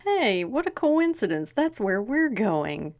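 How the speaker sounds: sarcastic surprise. Real, not acted. Sarcastic mock surprise at coincidence.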